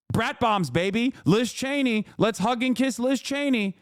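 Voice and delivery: high, sneering parody of liberal cheer; mock their Liz Cheney enthusiasm; sarcastic mock liberal. Streamer mocking liberal chatters, sarcastic sneering voice.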